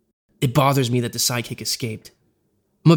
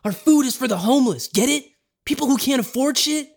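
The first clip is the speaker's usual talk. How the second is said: higher mock rant, rising; lightly voiced angry lecture; exploding; 11 semitones higher than usual. Josh lecturing Bo about the homeless, higher mild mock anger. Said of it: "Josh explodes".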